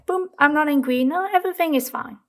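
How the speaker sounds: quick, high, falsely cheerful brush-off; mock breezy denial. Pretending to the viewer nothing is wrong, mock breezy denial. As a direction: pretend all is fine, pushing anger down.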